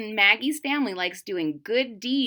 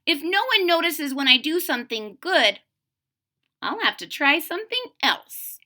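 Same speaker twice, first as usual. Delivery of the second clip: put-on a bit higher, scheming girl voice; lightly voiced little witch; 4 semitones higher than usual. Maggie decides on mischief, lightly raised girl voice. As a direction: plot it out like a small mischief-maker. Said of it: "said Maggie".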